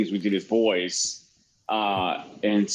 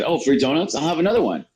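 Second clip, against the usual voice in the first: mildly joking, higher pitched question and answer; 5 semitones higher, faster than usual. Retold or imitated. Kid joking with two teachers, playful. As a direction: pipe up lightly for a joke. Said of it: "I jokingly said".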